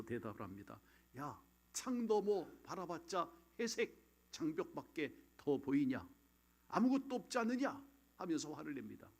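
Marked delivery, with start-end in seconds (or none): 1.2-7.8 imitating an annoyed, high-pitched protest; irritated retort. Prisoner answering Frankl's talk of hope, irritated and scornful. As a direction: snap back in mock irritation, pitch jumping at the end. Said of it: "신경질적으로 이 빅터 프랭클에게 화를 내면서".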